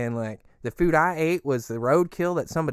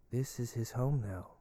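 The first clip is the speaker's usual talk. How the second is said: quiet, hypnotic invitation, lightly done; creepy cult voice; 2 semitones lower, 3 dB quieter than usual. Acted. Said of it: "he says that sometimes".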